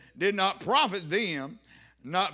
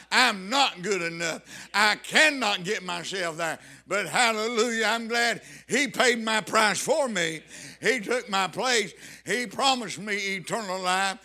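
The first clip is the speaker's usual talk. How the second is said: emphatic, raised preaching voice; preaching testimony; 3 dB louder than usual. Real, not acted. Preacher testifying to the congregation of his salvation, emphatic preaching. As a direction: declare it firmly to the congregation.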